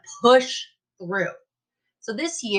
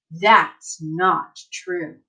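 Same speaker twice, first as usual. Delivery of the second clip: firm denial; 4 semitones lower, much slower than usual. Acted. Firm answer to doubts.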